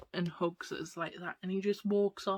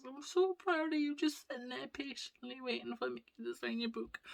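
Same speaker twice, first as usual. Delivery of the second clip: high-pitched, weepy pride; mock tearful mum; 5 semitones higher than usual. Proud mum to patient daughter, imitated tearful gushing. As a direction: gush like a mum close to tears.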